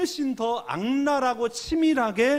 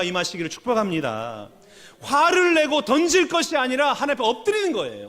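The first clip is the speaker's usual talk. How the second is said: preaching exhortation; 4 semitones higher, 6 dB louder than usual. Real, not acted. Exhorts and blesses congregation.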